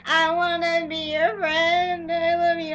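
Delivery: high, slow doting voice; mock tender plea. Fan wanting to hug Damon, a high slow doting voice. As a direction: coo it like hugging him. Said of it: "and I'm like".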